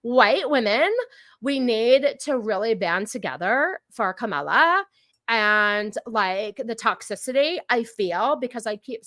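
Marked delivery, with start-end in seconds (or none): 0.0-4.9 mock the crazy ones who talk like that; hammed-up valley girl gushing. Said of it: "It's always the crazy ones that talk like that".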